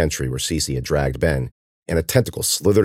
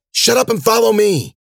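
high, loud command; shouted, impatient command; urgent order; 4 dB louder than usual. A narrator's reading. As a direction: order them to move now. Urgent order fleeing the creature.

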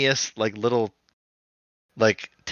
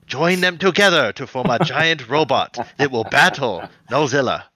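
flat, stiff line reading; bad acting. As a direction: deliver it woodenly. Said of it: "he's like".

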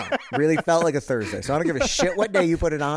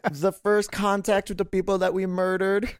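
mock solemn proclamation; 5 semitones higher, slower than usual.

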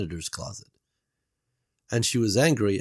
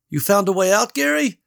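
hopeful; 12 semitones higher, 7 dB louder than usual. A narrator's reading. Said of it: "hope creeping around the edges of her voice".

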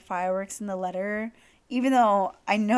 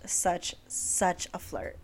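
breathy whisper; 2 semitones lower, 5 dB quieter, much slower than usual. Real, not acted.

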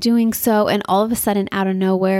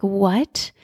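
rising, drawn-out disbelief; shocked question. Retold or imitated. Mother hearing what her son did, shocked question. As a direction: ask it in retold shock. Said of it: "so in shock, like".

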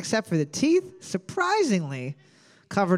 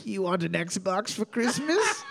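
slow breathy temptation whisper; sweet nothings whisper; 3 dB quieter than usual. Pretend. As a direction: coax him in a whisper. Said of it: "whispering sweet nothings to him".

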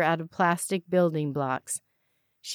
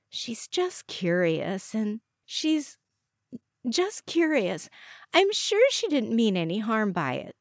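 slow, hesitant reassurance, pitched up; gentle; 4 semitones higher than usual. A narrator's reading. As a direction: search gently for kind words. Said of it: "Georgia said gently".

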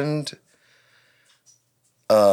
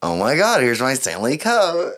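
Boss Babe voice; 3 semitones higher than usual. Retold or imitated. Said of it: "that's not how they sound".

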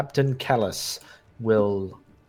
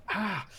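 high, soft cry of pain; a small, held-back scream of pain; quiet high-pitched yelp of hurt; mock pain scream; 10 semitones higher, 7 dB quieter than usual. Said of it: "screams out in pain".

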